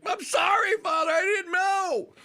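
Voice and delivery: high, loud mock-anguished cry; mock wailing apology. Penitent yelling back at a screaming preacher, mock wail. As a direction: wail it as a hammed-up plea. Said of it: "screaming at me, and I'm going like".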